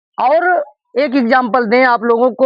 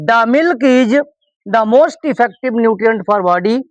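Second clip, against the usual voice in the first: slow, word-by-word model sentence; slow dictation; much slower than usual. Shown as a demonstration. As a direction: read each word out slowly for the class. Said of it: "क्या बोला जाएगा".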